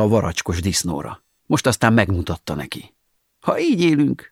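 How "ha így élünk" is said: first take pitched well up, falling on így; high exclamation. Acted. Narrator's wry proverb, first take: high exclaim. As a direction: lift "így" high then let it drop. Rueful saying, said twice.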